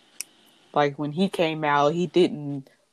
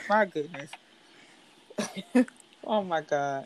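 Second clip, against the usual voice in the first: shaky sigh; 4 dB quieter than usual. Real, not acted. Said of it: "now I'm trying not to cry".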